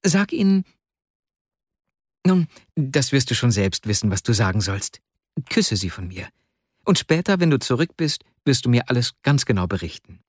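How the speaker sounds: anxious friend in a lightly acted voice; a hint of an agitated young clerk; lightly voiced Vasja. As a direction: hold a friend back with parting instructions. Acts Vasja in story dialogue.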